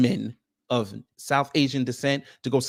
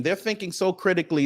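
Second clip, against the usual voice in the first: sarcastic stress on so; 5 semitones higher than usual. Shown as a demonstration. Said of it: "let's play that game".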